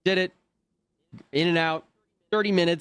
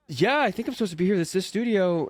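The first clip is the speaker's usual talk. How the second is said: nervous reply; 7 semitones higher than usual. Retold or imitated.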